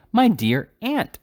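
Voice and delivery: high, slow gushing greeting; drawn-out delighted welcome; gushing exclamation. A narrator's reading. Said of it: "exclaimed Mister Ben Allen".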